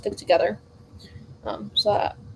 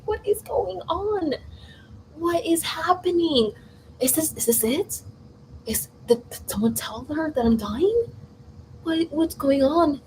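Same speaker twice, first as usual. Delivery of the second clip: higher and slow, retelling a bewildered fright; retold panic; 6 semitones higher than usual. As grandma suddenly prays intensely, a retold slow panic. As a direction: spell out the kid's confused alarm.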